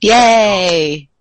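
bright little cheer; excited cheer. Real, not acted. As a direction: cheer it out loud. Cheering DLC rumour.

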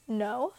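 "No" said with a rising question tune; "No" as a hesitant question, pitch climbing. Real, not acted. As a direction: lift "No" up like a doubtful question. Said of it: "No, question mark?".

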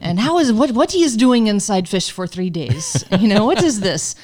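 imitating a friend's wide-eyed disbelief; shocked and amazed. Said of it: "she was shocked and amazed".

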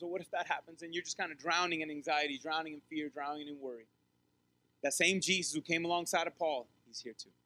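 usual speaking voice

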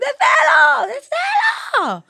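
high-pitched imitation of a child screaming; mock child's scream, loud and very high. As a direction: shriek it like a little kid refusing, drawn out. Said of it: "Το οποίο ούρλιαζε και λέει".

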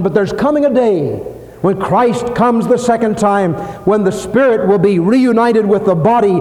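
impassioned preaching. Real, not acted. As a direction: proclaim the promise with rising conviction. Preacher proclaims second coming.

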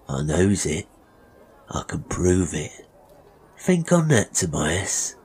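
a touch of knowing menace; insinuate, letting the threat sink in; lightly voiced sly barber. Master revealing mother's theft to the boy, slyly menacing.

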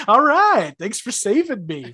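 mock sarcastic thanks. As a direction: toss off the thanks with fake cheer. Corey's joke to Topanga.

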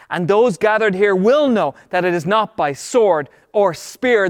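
ringing declaration, settling at the end; tremendous faith. Acted. David prophesying to the Philistine, declaration of faith. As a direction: proclaim victory as already certain. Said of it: "he's speaking with tremendous faith".

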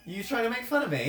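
laughing accusation. Real, not acted. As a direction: tease while cracking up.

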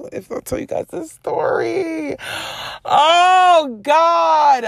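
high-pitched, breaking up with laughter; cracking up before telling the story; real laughing fit. Real, not acted. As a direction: laugh helplessly through the words. Laughing before a story she recalls.

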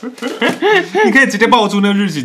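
slow, high words through real laughter; laughing. Real, not acted. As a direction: laugh while teasing her, drawing the words out. Friend teases about the exact date. (边笑边慢慢说，音调偏高)

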